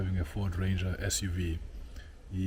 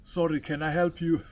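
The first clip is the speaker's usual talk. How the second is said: sharp, higher and louder challenge; sharp accusing voice; 9 semitones higher, 6 dB louder than usual. Retold or imitated. Resident challenging a stranger near her gate, sharp and accusing. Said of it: "I heard a very sharp, accusing voice saying".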